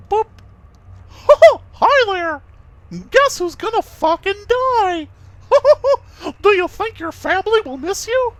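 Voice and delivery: high, cackling villain taunt; creepy villain voice. Acted. Creepy character taunting the player.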